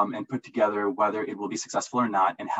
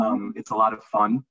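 smiling voice; 3 dB louder than usual. Real, not acted. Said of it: "hear the smile in my voice right now".

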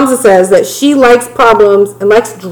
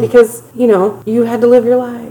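higher, softer fake pity; mock sympathy; 3 semitones higher, 5 dB quieter than usual. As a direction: feign pity for poor Memphis.

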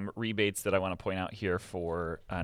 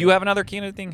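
surprised; 12 semitones higher, 10 dB louder, faster than usual. Real, not acted. Cohost announces another camera deal.

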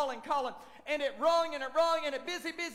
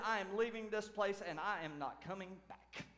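softer, lower muttered walkout; offended church member's quiet huff; huffy vow; 7 semitones lower, 10 dB quieter than usual. Retold or imitated. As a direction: grumble it under your breath. Offended member vows to leave.

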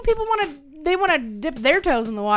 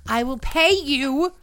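mock customer voice; slower than usual. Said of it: "message that says".

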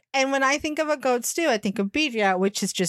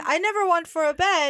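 higher-pitched, light Carson-style delivery; Carson impression; 5 semitones higher than usual. Co-host showing how Carson would say the line, Carson impression. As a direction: say it higher, lifting on "never". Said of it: "say it like Carson and say".

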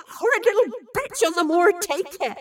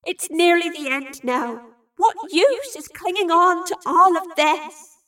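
high, loud, slow desperation; pleading; 8 semitones higher, 7 dB louder, slower than usual. A narrator's reading. Evie begs Bill to stop clinging on, desperate. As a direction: plead with rising pitch and force.

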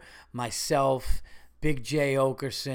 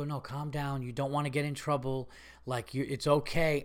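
retold de-escalation; 5 dB quieter than usual. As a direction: talk down a belligerent drunk, gently. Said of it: "it diffuses a situation".

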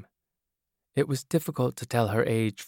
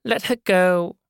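casually; 10 semitones higher, 6 dB louder, slower than usual. Acted. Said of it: "the woman said casually".

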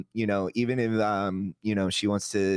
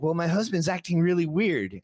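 imitating the wife; 9 semitones higher than usual. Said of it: "And she's like".

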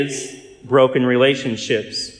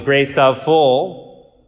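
slow, drawn-out mocking demon; 3 dB louder, much slower than usual. Demon mocks the priest by scrambling the prayer, slow and sneering. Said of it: "The demon looked at me and laughed and goes".

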